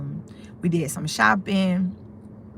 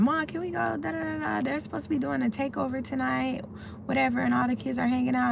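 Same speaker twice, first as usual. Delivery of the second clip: high imitation of kids asking mom; pleading kids; 7 semitones higher, faster than usual. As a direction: pitch it up like a child begging to go out.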